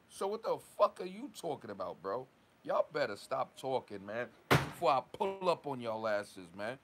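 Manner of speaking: real anger boiling over at critics; heated rant. Real, not acted. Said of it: "Let me, let me calm down".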